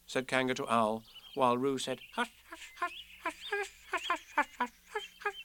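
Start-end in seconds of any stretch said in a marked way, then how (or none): 2.1-5.3 tiny high whispered hushes; very quiet. A narrator's reading. Little Roo hushing himself over and over, whispered. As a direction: hush to himself, barely a breath. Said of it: "several times to himself very quietly".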